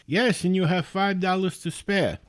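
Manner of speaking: put-on Indian-accented salesman. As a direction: imitate an upbeat caller with an Indian accent. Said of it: "he's got a very thick Indian accent".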